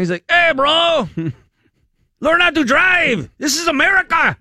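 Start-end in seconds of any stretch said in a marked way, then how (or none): 0.3-3.3 much higher, louder mock shout in a Hispanic accent; angry Texan cowboy yelling at a driver in a Hispanic accent. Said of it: "with a Hispanic accent". 3.4-4.4 much higher, louder mock shout in a Hispanic accent; angry cowboy yelling in a Hispanic accent. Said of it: "with a Hispanic accent".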